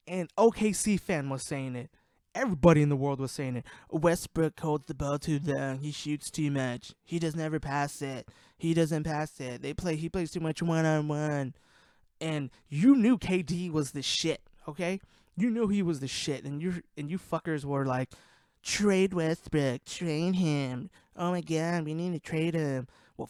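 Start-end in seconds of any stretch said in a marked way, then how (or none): 3.9-11.5 slow, drawn-out imitation of critics; mock griping. Podcaster quoting what everybody said about Westbrook, mock griping. 18.6-22.9 dragged-out imitation of griping fans; mock whining. Podcaster quoting fake fans wanting a trade, mock whining.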